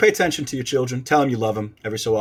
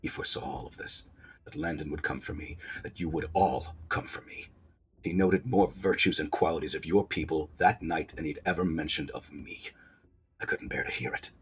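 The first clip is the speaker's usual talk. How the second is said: low, soft, sorrowful prince voice; quiet, brooding royal monologue; wounded, bitter prince; 6 semitones lower, 10 dB quieter than usual. Acted. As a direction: confess old grief through wounds.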